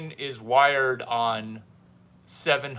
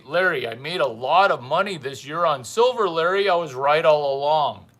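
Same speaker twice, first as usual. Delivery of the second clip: louder, puffed-up boasting viewer, mocked; mock bragging viewer; 5 dB louder than usual. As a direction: play the show-off who thinks he was right all along. Mimics boasting viewer's message.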